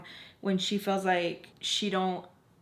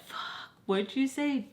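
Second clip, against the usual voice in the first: put-on slurred, slow, higher drunk voice; mock drunk friend; 6 semitones higher, slower than usual. Mocking a drunk friend who missed what she said, slurry and slow. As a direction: imitate a tipsy friend who lost track.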